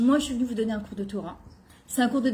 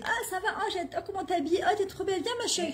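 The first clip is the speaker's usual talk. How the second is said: affectionate mother; 8 semitones higher, 5 dB quieter than usual. Retold or imitated.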